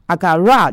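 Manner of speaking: agara with the stress on the last syllables; stress on the end. Shown as a demonstration. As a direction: put the weight on the back of agara. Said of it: "重音应该是后面agara这个字". (重音放在agara后面)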